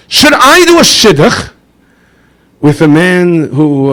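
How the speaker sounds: a rabbi anxiously asking advice; worried rabbi. Retold or imitated. Rabbi asks the Baal Shem Tov about a match, high and slow.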